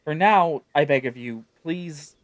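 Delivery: lightly voiced, earnest hidden girl; faint pleading girl. Sylvie begging Miku from inside the tent, mildly voiced. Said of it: "her voice faint".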